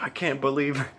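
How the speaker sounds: high, loud amazed quote; imitated disbelief. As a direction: act out a friend's astonishment. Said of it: "and he's like".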